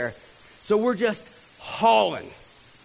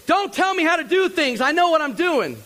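put-on higher, louder, snapping back like a cocky kid; know-it-all kid snapping; 10 semitones higher, 4 dB louder than usual. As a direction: brush off the warning, sure you know best. Cocky roadie snaps back.

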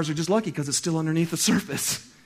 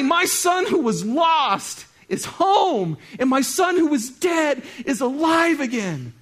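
slow joyful proclamation; 8 semitones higher, 5 dB louder, slower than usual. Acted.

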